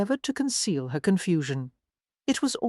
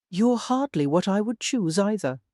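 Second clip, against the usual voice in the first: retort; 3 semitones higher than usual. Acted. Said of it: "She managed to retort".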